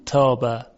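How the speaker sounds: تابه after a clear نون; crisp تابه; plain تابه after a sounded نون. Shown as a demonstration. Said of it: "نمیگیم من".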